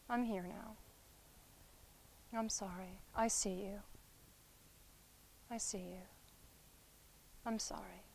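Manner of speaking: soft, tender, reassuring apology; soothing comfort. Shown as a demonstration. Therapist soothing a drowned inner child, soft and tender. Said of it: "you just call it what you see".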